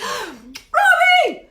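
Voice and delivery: loud, high call. Real, not acted. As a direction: holler for Robbie. Calling out to someone off screen.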